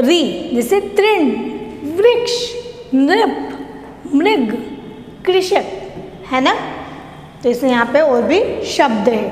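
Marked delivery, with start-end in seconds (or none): 0.5-5.7 each word lifted higher, "trin, vriksh, nrip, mrig, krishak"; modelling the words. Shown as a demonstration. Teacher reciting the ऋ words for children, raised pitch. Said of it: "उसका उच्चारण भी हम क्या करते हैं?".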